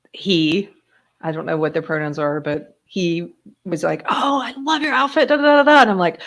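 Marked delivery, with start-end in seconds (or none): 4.1-5.8 high, singsong compliment trailing into da-da-da; imitated gushing. New employee compliments her outfit, imitated gushing. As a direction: gush like a delighted admirer.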